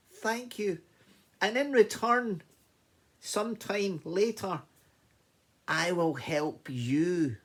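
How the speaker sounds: high, loud mouse bursting with thanks; grateful mouse. Acted. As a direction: squeak out your relief. Mouse promises help.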